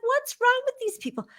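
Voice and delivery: high, incredulous outburst; exasperated. Retold or imitated. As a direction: throw up your hands in disbelief. Exasperated after mom's denial.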